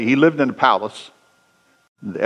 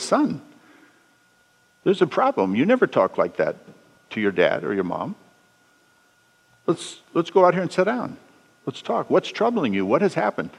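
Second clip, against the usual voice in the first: softer, calm fatherly voice; gentle father; 2 semitones higher, 4 dB quieter than usual. Acted. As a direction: reach out to the son softly instead of fighting back. Father calmly addresses insulting son.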